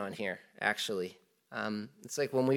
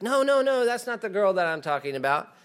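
much higher, louder no no no; protesting groom; 8 semitones higher, 4 dB louder than usual. Retold or imitated. Groom protests to family that the girl is wrong, much higher and louder.

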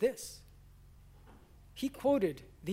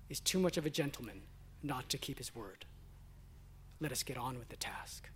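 hushed whisper; 7 semitones lower, 10 dB quieter than usual. Retold or imitated. Livingstone speaks at wife's grave.

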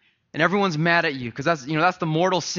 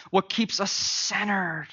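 slower, weighted restatement of centered; slow emphatic repeat; 2 semitones higher, slower than usual. Real, not acted. Pastor repeats the question slowly to the congregation. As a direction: lean on each word, drawing it out. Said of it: "repeated for emphasis".

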